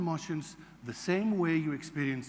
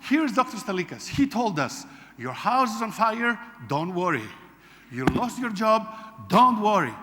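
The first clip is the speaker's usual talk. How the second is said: higher, louder, gushing imitation of a fan; loud eager retelling; 5 semitones higher, 7 dB louder than usual. Former workshop guest introducing the doctor to his wife, gushing loudly. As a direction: play up his overexcited praise. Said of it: "He says".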